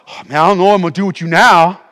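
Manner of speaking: lightly voiced parent at a loss, quick; mock exasperation at a misbehaving child; exasperated parent. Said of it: "That's what parents do".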